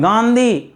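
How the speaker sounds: गांधी nasalised on the first vowel; गलत उच्चारण गांधी. Shown as a demonstration. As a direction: say गांधी through the nose. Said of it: "गांधी नहीं पढ़ते हैं". (गांधी, नाक से बोला हुआ)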